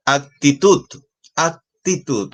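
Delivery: actitud pitched high, with weight on -tud; stress on final syllable. Shown as a demonstration. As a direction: say actitud high and clear, leaning on the last syllable. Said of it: "la fuerza de voz está en la última sílaba".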